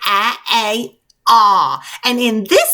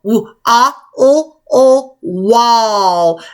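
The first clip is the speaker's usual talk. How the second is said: louder spelling. Shown as a demonstration. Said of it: "let's do it again".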